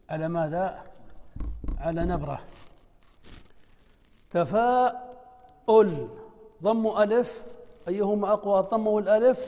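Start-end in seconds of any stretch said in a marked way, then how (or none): 4.3-6.1 drawn-out word. Shown as a demonstration. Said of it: "teacher reads example word".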